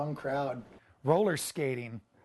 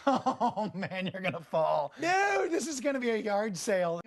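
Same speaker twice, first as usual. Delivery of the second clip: alarmed self-talk; 5 semitones higher than usual. Retold or imitated. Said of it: "And I just went".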